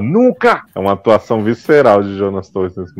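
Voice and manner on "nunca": a high cry of "Nunca!"; defiant refusal. Retold or imitated. Rafa refusing the villain: high, defiant "Nunca!". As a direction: refuse outright, voice jumping up high. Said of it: "Aí ele fala".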